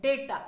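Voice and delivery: data said DAY-ta; day-ta repeated; teacher model of data; correct data. Shown as a demonstration. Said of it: "this is".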